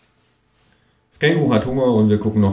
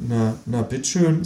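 lightly voiced cashier; 3 semitones higher than usual. Cashier gives up on the kangaroo. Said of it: "sagt der Junge".

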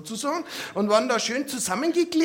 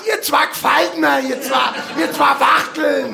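mock shout; 4 dB louder than usual. Boy's angry inner retort.

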